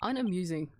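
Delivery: Unamusing said low and falling. Shown as a demonstration. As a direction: drop Unamusing low and flat. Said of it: "repeated word differently".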